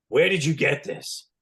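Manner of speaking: restrained imitation of a scolding father; a touch of stern interrogation; stern fatherly voice. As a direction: question it sternly, without shouting. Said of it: "In a very stern, like my father yelling at me, voice".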